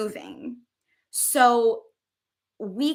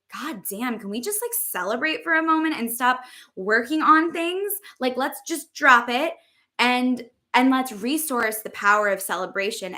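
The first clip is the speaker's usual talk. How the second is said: put-on whiny inner child; 3 semitones higher than usual. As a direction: whine it like a fed-up child. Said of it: "my inner child is like".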